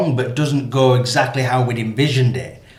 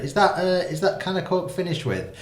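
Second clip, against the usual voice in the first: polite hint; 7 semitones higher, 7 dB quieter than usual. Retold or imitated. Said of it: "his nice way of saying".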